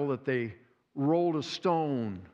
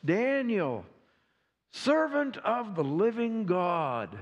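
strained, slowed, higher anxious plea; stressful voice; 3 semitones higher than usual. Acted. King calling Daniel from the den, strained. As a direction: call out to Daniel under stress. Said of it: "the stressful voice".

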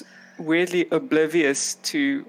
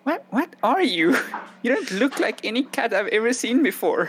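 high-pitched, puzzled kitten voice; curious cat; 6 semitones higher than usual. Acted. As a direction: ask in a high, baffled little cat voice. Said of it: "paw on the side of the face and say".

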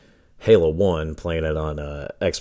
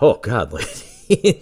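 laughing disbelief; 3 semitones higher, 4 dB louder, much slower than usual. Retold or imitated. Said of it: "I'm like".

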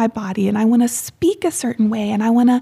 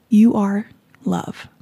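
tender affirmation; 3 semitones lower, slower than usual. Real, not acted. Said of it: "I just wanted to say".

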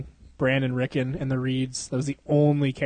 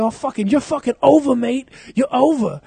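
high, loud mock tirade; hammed-up angry shouting; Christian Bale yelling; 10 semitones higher, 7 dB louder than usual. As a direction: imitate a movie star berating an assistant. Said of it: "he's yelling at that fucking P A".

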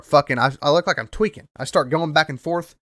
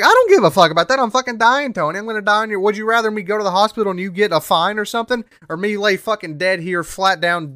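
desperate yell; 5 semitones higher than usual. Retold or imitated. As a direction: yell at Tony that you're dying. Yelling at Tony he's dying.

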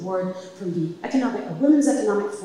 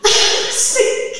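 halting impaired speech; 7 dB louder than usual. Retold or imitated. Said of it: "speaking and talking to him like that".

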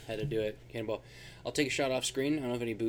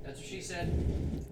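slow, breathy aside under the breath; slow whisper of the classic gag; whispered punchline; 7 semitones higher, 7 dB quieter, much slower than usual. Acted. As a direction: sneak the joke in as a whisper.

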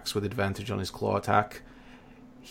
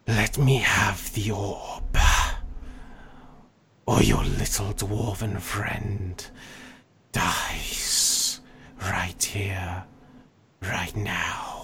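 menacing dragon whisper; much slower than usual. Acted. Dragon threatens the party.

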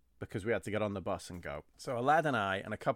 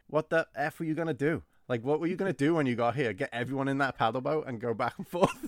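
mock exasperated yell; 5 semitones higher, 4 dB louder than usual. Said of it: "he was like".

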